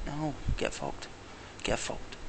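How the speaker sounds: muttered swearing. Retold or imitated. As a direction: mutter it, slow and bitter. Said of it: "I felt like it".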